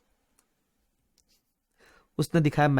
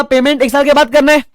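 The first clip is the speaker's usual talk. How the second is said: owner stating terms; 10 semitones higher, 10 dB louder than usual. Retold or imitated.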